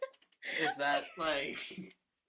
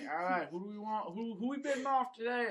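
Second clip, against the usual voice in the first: raised, rising auctioneer's call; 7 semitones higher than usual. Acted. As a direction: call for bids in a higher voice. Plays slave auctioneer in retold sketch.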